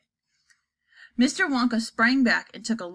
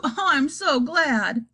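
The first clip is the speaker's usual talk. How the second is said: laughing with joy; 4 semitones higher, much slower than usual. Acted.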